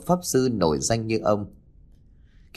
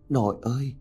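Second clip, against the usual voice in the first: soft, tearful little cry to grandma; whimpering call; 3 semitones higher, 4 dB quieter than usual. A narrator's reading. Girl whimpers to her grandmother, tearful. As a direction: call out to her with a trembling pout. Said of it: "cô mếu máo cất tiếng".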